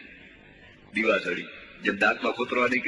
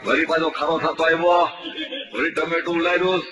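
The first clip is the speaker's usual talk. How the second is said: lively mock sports commentary, rising as the game heats up; mock play-by-play. Comedian mocking a village match, commentary voice. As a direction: call the match like a radio commentator, tongue in cheek.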